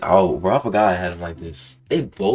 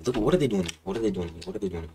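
fading lament; 3 dB quieter, much faster than usual. Real, not acted. Gamer giving up on his complaint to the game. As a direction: let it trail off dejected.

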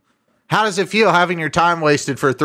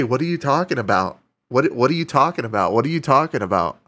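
a light mock of the confused scammer; mimicking the scammer; 4 semitones lower, faster than usual. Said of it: "that's all he could say".

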